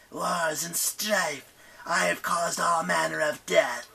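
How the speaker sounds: high, slow, menacing; goddess of strife. Acted. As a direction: boast of death slowly. Eris voiced.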